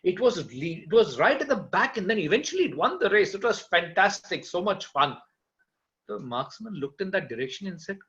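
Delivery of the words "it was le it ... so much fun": matter-of-fact. Acted. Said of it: "most matter-of-factly said".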